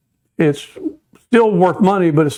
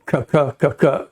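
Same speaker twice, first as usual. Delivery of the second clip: single cut feed call; 2 semitones lower than usual. Shown as a demonstration. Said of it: "on a single cut".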